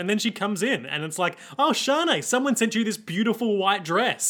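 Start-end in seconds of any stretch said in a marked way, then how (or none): 1.6-4.3 high sugary character voice; mock sweet hostess voice; high put-on voice. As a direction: sweetly offer the dress, pitched up. Voicing a character offering dress.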